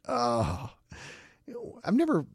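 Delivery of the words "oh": imitated groan. Preacher imitating Jesus groaning at the grave, heavy groan. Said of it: "Jesus groaned. That".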